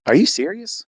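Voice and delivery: high, stunned question; can't believe the news; disbelief. Retold or imitated. Husband stunned by wife's pregnancy test.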